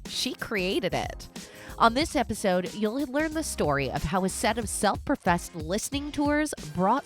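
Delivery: polished, lively host intro over music; podcast intro read. Acted. Host introduces guest and show to listeners, announcer read. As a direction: read it like a show opener with punched key words.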